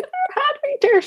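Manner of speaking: very high, weepy squeak; mock-wail through happy tears; high-pitched tearful insistence, acted out; imitated happy crying. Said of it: "happy tears or sad tears".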